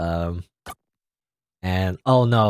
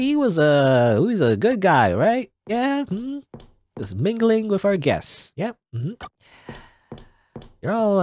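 halting host greeting guests, lilting higher; mingling funeral host; 4 semitones higher than usual. Pretend. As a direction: play an awkward host making small talk. Mock-greets funeral guests in game.

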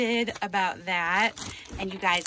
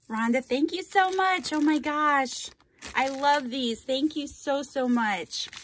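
excited thanks; 5 semitones higher, 3 dB louder than usual. Real, not acted. Thrilled thanks for a gift.

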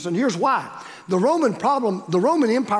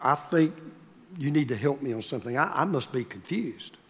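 feigned confusion; 5 semitones lower, 6 dB quieter than usual. Retold or imitated. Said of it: "I said".

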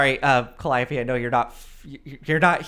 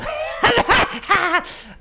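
high cackle; 6 dB louder than usual. Acted. GM laughs at cackling madcap.

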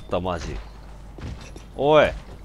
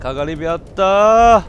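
mild mock cheer; 3 semitones higher, 5 dB louder, slower than usual. Shown as a demonstration. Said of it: "私も喜んどきますか".

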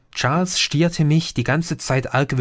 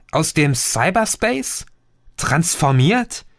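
dumbfounded echo; 4 semitones higher than usual. Acted. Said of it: "wiederholte ich treu doof".

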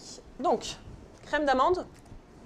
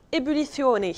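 mock Spanish accent; 4 semitones higher, 7 dB louder than usual. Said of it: "un accent espagnol quand je dis ébullition".

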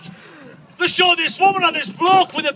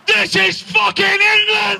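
outraged rant; 3 semitones higher than usual. Acted. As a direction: hammer it out in disbelief. Ranting about drought.

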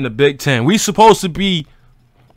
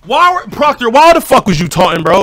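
angry rant; 4 semitones higher, 4 dB louder than usual. Real, not acted. Fan ranting at player for taunting.

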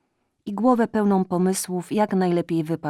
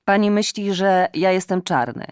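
fawning cat; 2 semitones higher, 6 dB louder than usual. Acted. Cat's fawning speech.

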